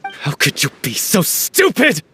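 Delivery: rising anger that breaks into a shout; furious accusation. Acted. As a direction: tear into him for hiding the truth. Accusing friend over her death.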